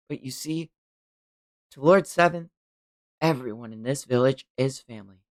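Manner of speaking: soft, unhurried character reading; measured story reading. Acted. Narrator reassures listeners about Lord Seventh, soft and measured. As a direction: read it quietly with measured pauses.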